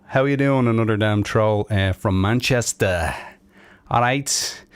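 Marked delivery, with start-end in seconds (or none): 1.9-4.6 badly faked Manchester accent, drawn out. Streamer greets a chat viewer from Manchester, bad Manchester accent. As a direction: have a poor go at a Manchester accent. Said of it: "probably the worst accent going".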